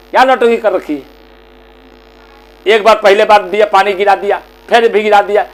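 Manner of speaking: mildly irritated complaint; exasperated son. Acted. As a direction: list her mishaps as an accusation. Son scolds mother for spilling.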